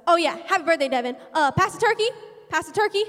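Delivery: quoting the pastor. Retold or imitated. Pastor quoted at dinner.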